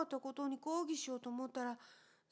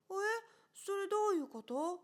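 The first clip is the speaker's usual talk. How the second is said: surprised; 5 semitones higher than usual. Acted. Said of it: "と僕は驚いて聞いた".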